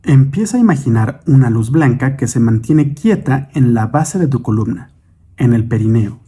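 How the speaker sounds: measured meditation guide, long pauses between instructions; guided meditation. Acted. Guide leads listeners in breathing and imagining light, guided meditation. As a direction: guide the listener unhurriedly through breath and imagery.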